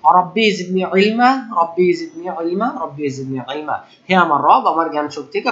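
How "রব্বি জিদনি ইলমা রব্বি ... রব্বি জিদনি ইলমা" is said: slow recited supplication; slow dua recitation. Shown as a demonstration. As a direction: chant the prayer slowly for students to repeat. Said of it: "সবাই আমার সাথে বলেন". (ধীরে দোয়া তিলাওয়াত)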